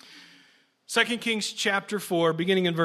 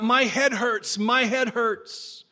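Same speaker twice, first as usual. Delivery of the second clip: cried out; 3 semitones higher, much slower than usual. Acted. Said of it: "he cried out".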